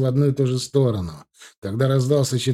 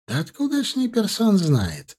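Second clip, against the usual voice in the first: much higher, whining protest; indignant lawyer; 9 semitones higher than usual. A narrator's reading. Lawyer protests to Zhenya, high and indignant. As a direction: throw up your hands.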